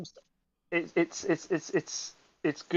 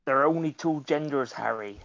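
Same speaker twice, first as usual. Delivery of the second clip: Hagrid impression. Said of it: "a transphobic Hagrid".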